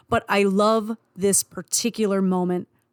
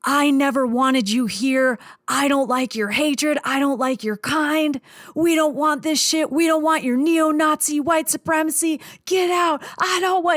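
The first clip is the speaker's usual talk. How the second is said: wobbly yell; 7 semitones higher than usual. Retold or imitated. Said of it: "he's yelling with a wobbly voice".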